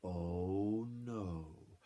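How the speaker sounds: slow, teasing sing-song; cheeky gingerbread man. Acted. Gingerbread man taunting his chasers, slow teasing chant. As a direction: taunt them as you run.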